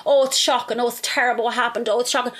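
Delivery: hammed-up fake gasping concern; mock the hollow tut-tutting; sarcastic imitation of gossips; mock shock. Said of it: "you'll be all".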